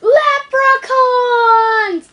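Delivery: loud drawn-out leprechaun cry. Acted. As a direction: bellow it like a cartoon leprechaun. Joke: Lep stands for leprechauns.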